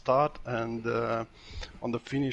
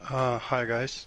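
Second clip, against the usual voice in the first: tired. Real, not acted. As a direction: say hi like you're worn out. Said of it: "That sounded like a tired hi".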